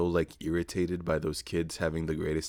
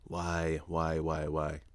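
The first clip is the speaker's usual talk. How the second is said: muttered despair; 6 dB quieter than usual. Retold or imitated. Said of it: "where I was like".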